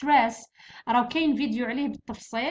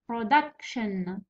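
Production slowly, leaning on 'duc'; stress on DUC; 4 semitones lower, much slower than usual. Shown as a demonstration. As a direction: stretch out Production around its middle syllable. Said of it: "والثاني داكا".

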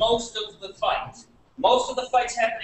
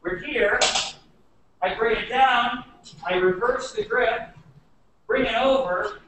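slow step-by-step walkthrough; slow demo. Shown as a demonstration. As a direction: talk it through slowly. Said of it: "Do it slow again".

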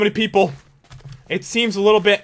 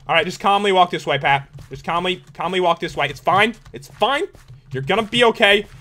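self-soothing, softened reassurance with uneasy edge; falsely calm. Real, not acted. Gamer lying to himself it's fine, falsely calm. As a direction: talk yourself down, not quite believing it. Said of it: "I'm so lying to myself".

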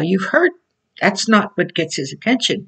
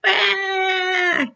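a sudden high mock baby cry; high baby wail; 13 semitones higher, 3 dB quieter than usual. Preacher imitates the stubborn crying baby, high wail. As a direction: squeal like a fussing infant.

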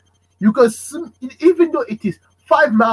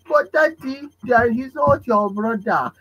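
higher, slow protest; child questioning his father; cheeky child objecting; 5 semitones higher, slower than usual. Retold or imitated. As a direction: argue back innocently.

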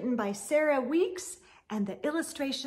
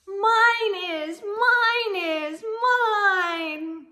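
high, loud sing-song chant of mine; high singsong little-one reply; eager little voices; 7 semitones higher, 9 dB louder, much slower than usual. Acted. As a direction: chant it like an excited toddler claiming. Eager answer, sung.

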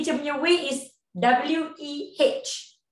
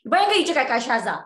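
normal talking voice

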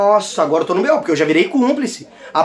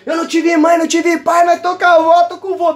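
whiny imagined viewer; 6 semitones higher than usual. Pretend.

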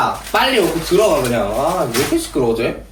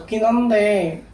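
높은 톤으로 말끝을 길게; 느리고 나긋하게 망설이듯; 내숭 전화 목소리; 5 semitones higher, slower than usual. Real, not acted. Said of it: "누나 목소리 왜 그래?". (오빠 앞 얌전한 말투)

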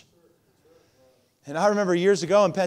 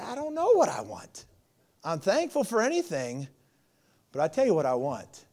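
sincere; 4 dB quieter than usual. Real, not acted. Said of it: "very transparent".

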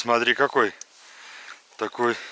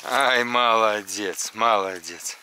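talking to a dog; 4 semitones lower than usual. Real, not acted. Praising dog slowly.

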